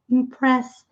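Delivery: "Impressed" ending in a T sound, silent E; "Impressed" ends on a crisp T, no extra vowel; Impressed with final t. Shown as a demonstration. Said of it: "o D com som de T".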